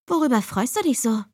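snippy sister voice; sharp and mocking. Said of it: "fragte sie schnippisch".

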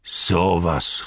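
mildly voiced amazement; a touch of astonished exclamation; exclaimed surprise. A narrator's reading. Farmer recognising Sam in the dusk, mildly amazed exclamation. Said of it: "rief er".

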